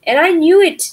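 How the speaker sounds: high, loud eager owl; little owl boasting to his mother, high and excited. Acted. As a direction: squeal it like a happy baby owl. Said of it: "said Percy".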